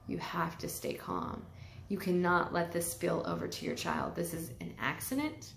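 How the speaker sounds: quiet, slowed talking herself down; calm self-talk. Retold or imitated. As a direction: soothe yourself, steady and hushed. Calming herself in the moment.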